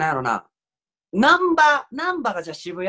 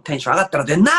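louder shouted retort on 出んな; comedy yell; 5 dB louder, much faster than usual. Pretend. Practising a comedy duo retort, a louder mock yell. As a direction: throw the line out like a manzai tsukkomi. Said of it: "怒鳴り系いけるわ".

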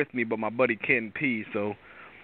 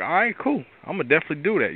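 higher-pitched, eager yes, retold; mildly excited quote of oneself; excited agreement; 5 semitones higher, faster than usual. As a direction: act out a keen, upbeat agreement. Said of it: "You know, I'm excited now".

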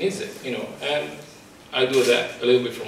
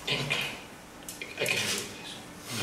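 breathless near-whisper, much softer, voice giving out; choked up; 3 semitones lower, 12 dB quieter, much slower than usual. Real, not acted. A survivor overcome while reading her thanks, choked near-whisper. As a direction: close to tears, words barely coming out. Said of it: "sorry if I'm getting emotional".

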